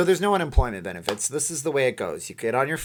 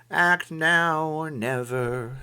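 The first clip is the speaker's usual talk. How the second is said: slow, higher, drawn-out delivery; slow dramatic read; 5 semitones higher, much slower than usual. Shown as a demonstration. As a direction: stretch each word like a slogan. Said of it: "it says act now or never".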